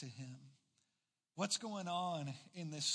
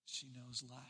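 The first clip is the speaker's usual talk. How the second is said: softer echo; 4 semitones lower, 8 dB quieter than usual. Shown as a demonstration. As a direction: repeat She knows life after a pause, even softer.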